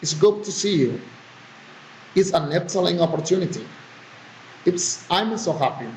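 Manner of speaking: exclamations coming down on "you", "opportunity", "happy"; falling exclamation intonation. Shown as a demonstration. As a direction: let "you", "opportunity", "happy" fall at the end. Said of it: "Falling intonation".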